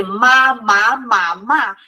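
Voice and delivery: "ma, ma, ma, ma" each with its own tone contour; four Mandarin tones. Shown as a demonstration. Teacher shows beginners why tones give headaches, "ma" tone drill. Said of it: "por causa dos tons".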